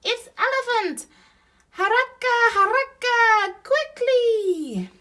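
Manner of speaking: very high, loud shouts; rally everyone to a rescue; urgent alarm. A narrator's reading. Animals raise the alarm.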